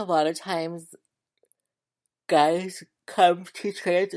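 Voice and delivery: talking through a yawn. Giving an opinion in a group discussion, yawning while talking. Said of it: "sorry, I'm yawning".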